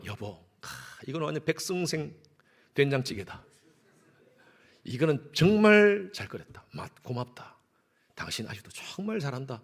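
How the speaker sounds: a husband lightly voiced, sweetly flattering; praising husband. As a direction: coax her with gentle compliments. Husband praising wife's soup.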